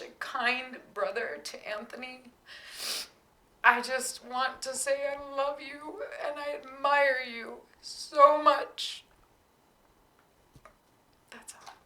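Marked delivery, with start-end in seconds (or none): 3.6-11.7 tearful. Real, not acted. Mother tearful praise.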